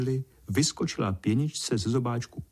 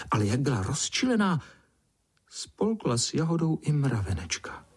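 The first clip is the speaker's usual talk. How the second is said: ordinary delivery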